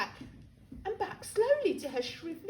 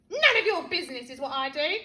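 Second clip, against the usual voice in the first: put-on a touch louder, brisk grumpy old woman; grumpy grandma; 3 dB louder, faster than usual. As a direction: snap it back like a cross granny. Grandma snaps at George.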